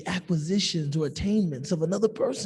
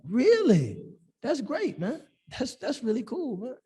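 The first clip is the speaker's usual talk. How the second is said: sincere; 5 semitones higher than usual. Shown as a demonstration. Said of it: "let it be sincere".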